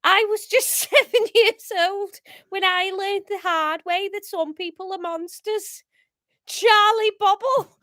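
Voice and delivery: hammed-up Scouse monologue; attempted Scouse. Paul's last words to his killer, attempted Scouse. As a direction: recount it in amateur Scouse. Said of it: "Um, Scouse".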